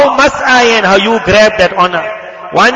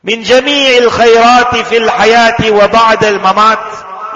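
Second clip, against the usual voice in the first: rapid Arabic recitation; much faster than usual. Real, not acted. Preacher reciting the durood to the congregation, rapid recitation. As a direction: rattle off the Arabic supplication at speed. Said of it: "reciting Arabic durood quickly".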